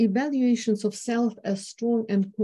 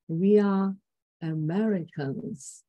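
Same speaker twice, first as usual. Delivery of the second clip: dreamy pride; slower than usual. Retold or imitated. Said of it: "dreamy voice timbre".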